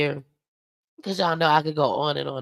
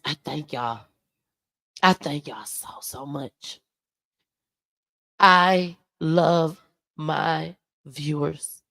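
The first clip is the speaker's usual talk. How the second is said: tearful thanks; slower than usual. Real, not acted. Vlogger thanking her viewers, choked up and tearful. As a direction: voice thinning and dropping with tears. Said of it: "you up here crying and stuff".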